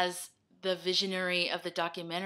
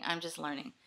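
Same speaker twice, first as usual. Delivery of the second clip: whisper; 3 semitones lower, 7 dB quieter than usual. Real, not acted. Repeats the line in a whisper.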